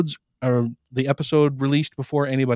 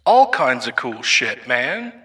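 megaphone effect; 3 semitones lower, slower than usual. Shown as a demonstration. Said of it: "for when we're talking to the people".

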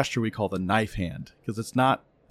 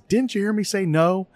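son's voice; 9 semitones higher than usual. Retold or imitated. Son arguing in back seat.

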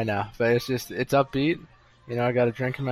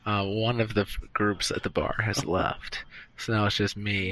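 muffled behind a hand; hand over mouth; 3 semitones lower, 4 dB quieter, slower than usual. Real, not acted. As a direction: talk through a covered mouth. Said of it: "I'm just gonna put my mou-, hand over my mouth".

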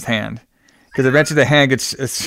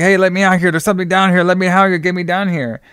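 higher-pitched retold pleading, lightly acted; mildly freaked out; 6 semitones higher than usual. Ash banging to be let out of the cellar, mildly freaking out. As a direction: call out in a mild mock panic. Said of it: "Ash starts freaking out".

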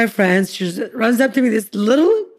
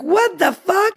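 shocked; 10 semitones higher, much slower than usual. Retold or imitated. Girlfriends' shocked reaction.

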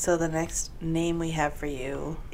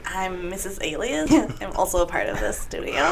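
vocal fry. Acted. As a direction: speak in a creaky fry. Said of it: "I apparently have a lot of vocal fry".

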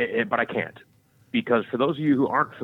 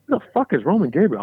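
mock confused outburst; 6 semitones higher, 6 dB louder than usual. Confused kid asking mom.

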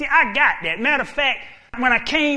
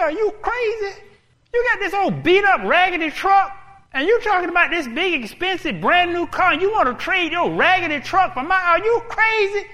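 incredulous scoff; 7 semitones higher than usual. Acted. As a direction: laugh off a ridiculous trade. Car owner scoffs at the trade.

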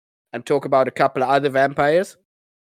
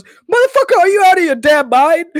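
high, loud mock Blade shout; mock yell; 13 semitones higher, 6 dB louder than usual. Quoting Blade yelling at the hospital gunman, high and loud. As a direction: bellow it like Blade turning on the shooter.

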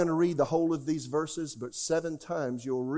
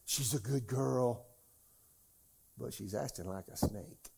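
doting parent. Retold or imitated. Preacher mimicking a parent praising their child, lightly voiced. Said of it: "Talking to a parent".

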